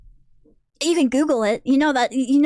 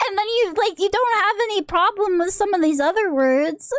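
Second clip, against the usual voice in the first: exasperated disbelief; 5 semitones higher than usual. Real, not acted. Incredulous rant continues after a laugh.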